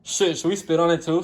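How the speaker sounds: loud jokey outburst; joking shout. Real, not acted. Cooking with a friend, calling out loudly in jest. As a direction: blurt it out for a laugh.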